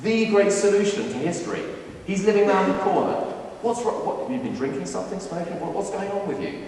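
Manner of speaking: high, incredulous mock scoff, lightly voiced; dismissive scoffing. Nathanael brushing off Philip's claim, incredulous and mocking. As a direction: scoff at the idea like it's a joke. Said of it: "He kind of dismisses it. He goes".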